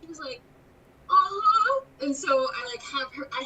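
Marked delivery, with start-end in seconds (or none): 1.1-1.8 put-on high, loud eager little-girl yes; imitated tiny girl. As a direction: agree like an eager small child. Tiny girl agrees to scare.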